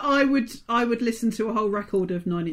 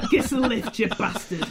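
put-on Yorkshire accent. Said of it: "the Yorkshire accent".

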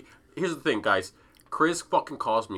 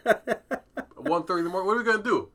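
incredulous; 8 semitones higher than usual. Real, not acted. Incredulous late call.

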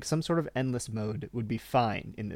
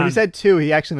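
laughing; 4 semitones higher, 11 dB louder than usual. Real, not acted. Teasing friend about cookies.

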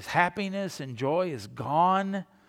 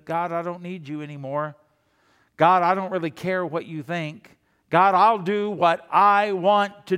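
defiant; 6 dB louder than usual. Retold or imitated. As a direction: throw it in God's face, louder each line. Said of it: "what he did".

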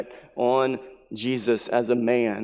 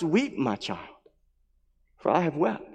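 tender comfort; 6 dB quieter than usual. Pretend. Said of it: "he can say to us".

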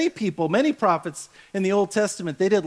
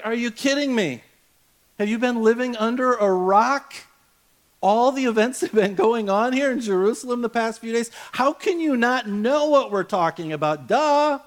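incredulous disciple; 3 semitones higher than usual. Acted. Disciples scolding Jesus in retelling.

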